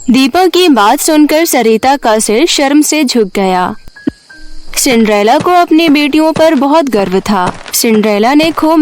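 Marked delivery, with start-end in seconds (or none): none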